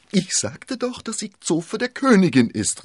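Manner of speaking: high, loud exasperated landlord; piercingly high impatience; impatient call. A narrator's reading. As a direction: cry it out, fed up with explaining. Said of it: "rief Bonacieux ungeduldig".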